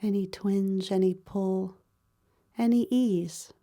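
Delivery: calm, even meditation voice with long pauses; guided body scan meditation. Real, not acted. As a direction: guide them gently through the body, pausing between phrases.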